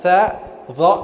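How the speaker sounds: THA and DHA with the tongue tip out; tongue-tip consonants. Shown as a demonstration. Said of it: "kamu keluarin ujung lidah kamu".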